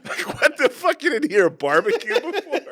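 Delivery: high, loud American tourist voice; a high-pitched, shocked American tourist; American accent. Retold or imitated. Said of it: "They're like".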